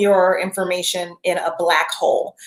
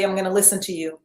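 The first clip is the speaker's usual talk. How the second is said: gentle promise to body; 5 dB quieter, faster than usual. Retold or imitated. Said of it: "You gotta say".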